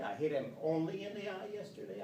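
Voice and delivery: "only" punched with a falling tune; stress on only. Shown as a demonstration. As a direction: hit "only" before "in the eye". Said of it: "When I insert this word "only".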